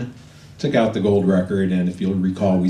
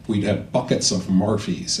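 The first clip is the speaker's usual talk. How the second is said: slow, lightly put-on Irish accent; a self-mocking hint of Irish lilt; terrible fake Irish accent. Telling the audience about pub nights with Noel, in a bad fake Irish accent. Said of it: "my terrible fake Irish accent".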